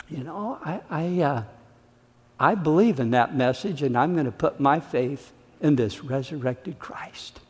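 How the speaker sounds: softly voiced convert embracing faith; sincere believer. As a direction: speak it as a quiet heartfelt decision. Third group confessing new faith.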